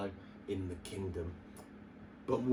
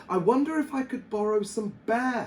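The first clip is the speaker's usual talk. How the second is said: thinking aloud; 10 semitones higher, 4 dB louder than usual. A narrator's reading. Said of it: "he thought".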